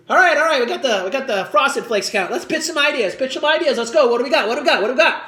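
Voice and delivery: lightly voiced meeting leader rallying the room; brisk pep-talk for a brainstorm; hustling ad boss. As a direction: fire off the questions with pushy energy. Acted ad boss rallying a pitch meeting.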